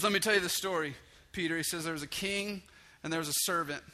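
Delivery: grab the listener as you start the tale; storyteller Jesus. Acted. Jesus starting a parable for Peter, loud and lifted.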